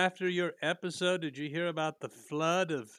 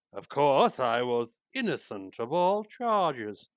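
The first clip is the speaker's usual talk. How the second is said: Boris Karloff voice; 6 dB louder, slower than usual. Retold or imitated. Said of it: "my Boris Karloff impression".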